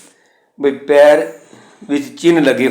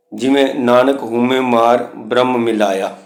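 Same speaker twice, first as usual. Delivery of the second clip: gurbani recitation. Shown as a demonstration. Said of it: "ਉਹ ਉਚਾਰਨ ਨਹੀਂ ਹੁੰਦੀ".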